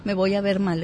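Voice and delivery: quick, hushed worried self-talk; anxious inner voice. Retold or imitated. Worrying to herself about refusing a friend, quick and hushed. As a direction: rattle off the fears under your breath, fast. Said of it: "viene todo eso".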